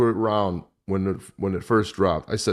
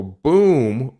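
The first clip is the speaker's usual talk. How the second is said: excited exclamation; 6 semitones higher, 8 dB louder than usual. Real, not acted. Reacting to harsh letter line.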